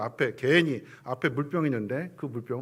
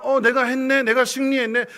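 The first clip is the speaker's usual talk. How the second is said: mock boast; 9 semitones higher, 11 dB louder than usual. Preacher voices boastful self.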